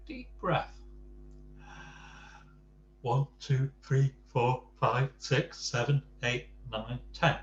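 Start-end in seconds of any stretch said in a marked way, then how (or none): 3.0-7.4 counting to calm down. Acted. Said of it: "he said".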